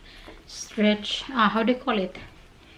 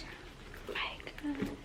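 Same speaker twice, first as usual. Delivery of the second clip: breathless unvoiced oh my God; awed whisper; 4 semitones higher, 17 dB quieter, slower than usual. Real, not acted. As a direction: whisper it in disbelief. Overwhelmed by bag.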